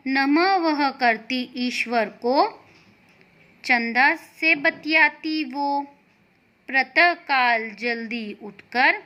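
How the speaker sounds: put-on slow, sing-song reading of a children's poem; measured poem reading for young learners; poem recitation. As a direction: recite the poem gently for the class. Reads a short poem.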